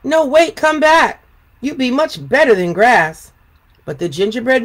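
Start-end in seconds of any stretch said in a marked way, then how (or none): 0.0-3.3 high pleading call. Acted. Animals call after runaway cookie.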